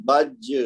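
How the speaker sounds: بج with the final ج jolted out, a bouncing echo; echoing jeem. Shown as a demonstration. Teacher repeating the strong qalqala bounce for students. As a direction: hit the ج of بج hard. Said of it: "زور دے کے کریں گے".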